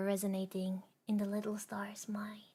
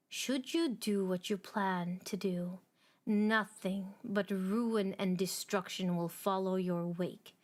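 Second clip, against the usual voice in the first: lightly voiced Star Forger. The Star Forger warning the star of ruin, lightly stern. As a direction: warn the star gravely.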